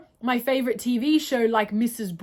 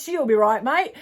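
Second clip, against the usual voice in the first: playful, lightly hammed Australian accent; stereotypical Australian accent. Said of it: "such a discredit to our, our accent".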